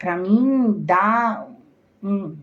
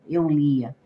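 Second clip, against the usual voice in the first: whisper; 3 semitones lower than usual. Real, not acted. Reminiscing to viewers, she whispers. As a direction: drop into a whisper for two words. Aside while recalling reading later.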